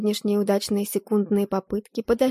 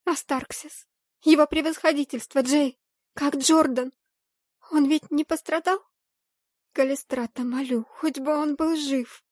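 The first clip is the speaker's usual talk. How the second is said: frantic plea; 6 semitones higher than usual. Acted. Heroine fears for Jordan, high frantic plea. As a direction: beg the goddess he is alive. Frantic prayer for loved ones.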